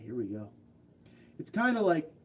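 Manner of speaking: ordinary delivery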